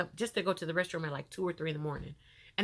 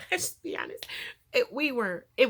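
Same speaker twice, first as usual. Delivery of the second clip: laughing; 5 semitones higher than usual. Real, not acted. Laughing admission.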